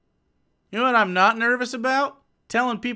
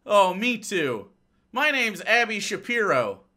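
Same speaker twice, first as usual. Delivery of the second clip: mock Abby; slower than usual. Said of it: "my impression of Abby".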